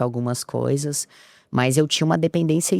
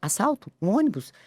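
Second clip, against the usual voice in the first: high startled questions, a little softer; shocked disbelief; 5 semitones higher, 4 dB quieter than usual. Retold or imitated. Passenger hearing of bus robberies, high shocked questions. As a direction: gasp out the news in alarm.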